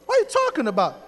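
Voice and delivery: very high, loud "what", then incredulous; retold shock. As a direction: react in astonished disbelief, pitch leaping up. Retelling his stunned reaction.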